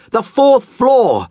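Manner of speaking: drawn-out high shriek of disbelief; slow screaming. Acted. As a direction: stretch each word in a loud high scream. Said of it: "the man screamed".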